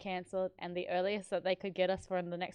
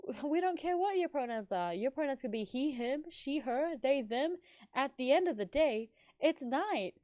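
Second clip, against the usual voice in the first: mock wise catchphrase; 5 semitones higher than usual. Quoting the twins' catchphrase.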